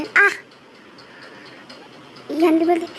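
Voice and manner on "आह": short sharp "aah" of pain, higher; cry of pain. A narrator's reading. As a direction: yelp as the back hurts. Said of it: "विंग दर्द से चिल्लाने". (दर्द से "आह!")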